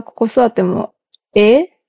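Kansai question rising on ええ; Kansai dialect. Shown as a demonstration. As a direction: ask lightly in Kansai dialect. Trying the Kansai version.

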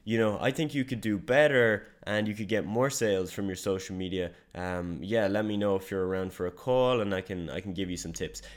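hesitant, unsure cold pitch with no conviction; unconfident voice message. Shown as a demonstration. Salesman demoing how a bad voice message sounds, hesitant and unsure. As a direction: mumble through it like you don't believe it. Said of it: "your voice messages sound like this".

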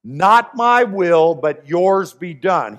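slow, weighty surrender; Jesus yielding to the Father, slow and solemn; solemn slow quote. Acted. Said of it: "what does he say?".

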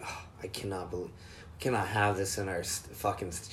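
low, fast mock outrage; offended prude. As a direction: mimic a clutching-pearls coworker. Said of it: "someone's, like, offended".

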